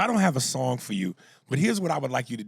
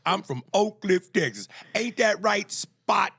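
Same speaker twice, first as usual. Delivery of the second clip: loud, high, drawn-out caricature of a caller; mock the caller in a big, raised voice; Oak Cliff caller impression; 7 semitones higher, 5 dB louder, slower than usual. Host mimics blind Oak Cliff listener talking to his dog, loud caricature. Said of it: "He barks like he talks".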